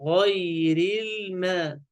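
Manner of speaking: slow "غير الماء", dark gh, thin m; measured tajweed demo of "غير الماء"; heavy then light. Shown as a demonstration. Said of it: "هكذا".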